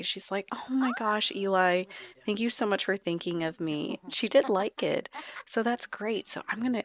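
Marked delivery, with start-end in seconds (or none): 0.5-4.0 high gush easing into gratitude; acted happy surprise at a gift; delighted thanks. Sister thanking brother for gift.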